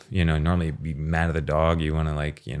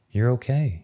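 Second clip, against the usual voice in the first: put-on higher, lilting "You're okay" to a baby; soothing reassurance; 6 semitones higher than usual. Parent comforting a crying baby on the plane, pitched up sweetly. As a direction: lift it up brightly to comfort.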